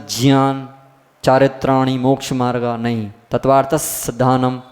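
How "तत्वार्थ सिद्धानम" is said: mock the wrong recitation; wrong sutra reading. Shown as a demonstration. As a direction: chant तत्वार्थ सिद्धानम stretched like verse. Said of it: "ऐसा नहीं पढ़ना पड़ता, गलत है".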